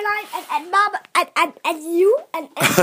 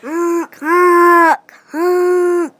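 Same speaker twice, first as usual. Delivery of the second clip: silly clown; 6 dB louder, much slower than usual. Pretend. Child keeps honking.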